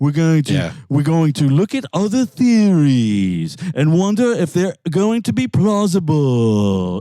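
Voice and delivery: online documentary narrator-style delivery. Imitating how the Ancient Architects presenter talks in his videos. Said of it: "I can't even do it as bad as this".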